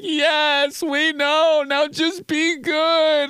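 high, slow teasing parent; high sing-song parental reply; mock parent voice. Parents answering excited kid.

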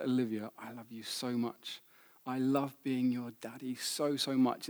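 softly re-enacting a father's love; gentle, softened, heartfelt retelling; tender retold declaration. Father telling Olivia he loves being her daddy, tenderly.

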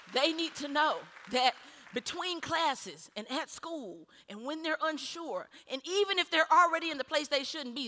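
insistent preacher; emphatic preaching. Real, not acted. Preaches with raised force.

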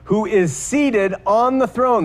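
proclaimed cry. Retold or imitated. Preacher quoting the saved hosts around the throne, proclaimed slowly. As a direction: draw out the quoted cry, proclaiming without shouting. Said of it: "that the cry is".

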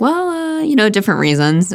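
lightly imitated Obama hesitation; Obama impression. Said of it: "going into my Obama impressions".

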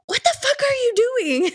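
high-pitched, incredulous cry; retold high wail of disbelief; appalled outcry. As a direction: exclaim it, scandalized at the kids. Aunt scolding dancing kids, retold.

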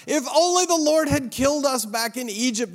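hammed-up grumbling of the people; moaning complaint. A narrator's reading. Israelites moaning to Moses and Aaron, mock lament. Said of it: "they moaned".

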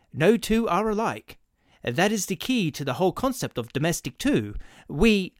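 a nervous clerk rushing his pitch; fussy clerk voice. Acted. Salesman clerk explains eagerly.

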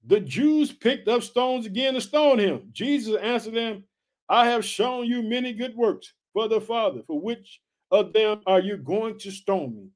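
slow, measured preacher reading; scripture reading. Acted. Preacher reading how Jesus answered the stone-throwers, measured scripture reading. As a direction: read it out deliberately, word by word.

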